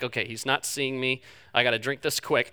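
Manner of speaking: hushed, nervous self-talk; sneaky hush. Retold or imitated. Pastor sneaking a Coke at a wedding, hushed and nervous. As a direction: mutter it like sneaking a forbidden drink.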